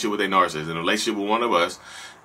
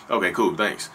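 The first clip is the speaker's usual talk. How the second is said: dismissive thanks; 3 semitones lower than usual. Retold or imitated. Husband shrugs off wife's compliment.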